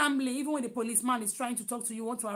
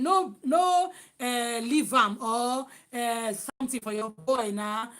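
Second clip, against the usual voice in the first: playing the generous buyer telling the seller to keep it; mock Nigerian customer; 4 dB louder, slower than usual. Nigerian customer tells the seller to keep the change, mock casual.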